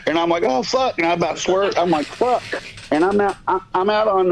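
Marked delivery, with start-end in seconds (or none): 0.4-1.0 high-pitched mock yelp of pain; retold startled curse. Retold reaction to head punch. 2.0-2.4 short high mock yelp; pitched-up swear, not shouted; retold startled curse. Retold reaction to head punch.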